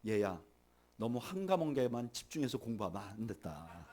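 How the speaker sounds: low, soft fatherly reassurance, lightly acted; imitating an understanding parent; gently encouraging parent. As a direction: console a child quietly, slightly slowed and unbothered. Parent gently consoles child over grades.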